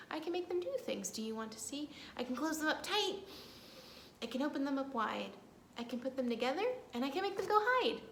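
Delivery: put-on fast, lively rhyme for kids; reading to children. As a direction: recite it briskly for little ones.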